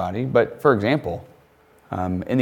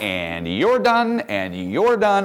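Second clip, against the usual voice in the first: casual dismissal; 2 semitones higher, much slower than usual. Retold or imitated. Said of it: "Jesus is like".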